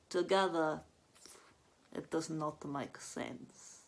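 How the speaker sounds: lightly voiced slow Slovenian bluntness; a hint of Anya's Slovenian accent, slow; blunt Slovenian. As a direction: state it flatly as fact. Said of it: "very blunt person".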